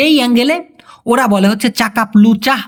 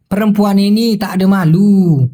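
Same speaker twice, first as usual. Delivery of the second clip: slow scolding in Malay; much slower than usual. Shown as a demonstration. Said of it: "ওরা ঠিক এভাবে বলে".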